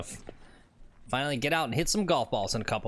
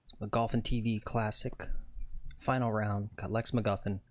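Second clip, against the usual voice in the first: hushed TV golf commentary; calm golf broadcast announcer; 3 semitones lower, 4 dB quieter than usual. Pretend. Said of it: "Time for a little announcer voice here".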